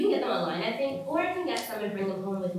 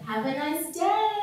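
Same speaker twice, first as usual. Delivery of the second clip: sweet smiling sign-off; 5 semitones higher, slower than usual. Retold or imitated. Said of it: "like, smiling".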